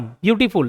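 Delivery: "ब्यूटीफुल" in beats, ब्यू-टी-फुल; broken into syllables. Shown as a demonstration. Teacher contrasting with short words, "ब्यूटीफुल" syllable by syllable. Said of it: "मेरा जुबान दो बार".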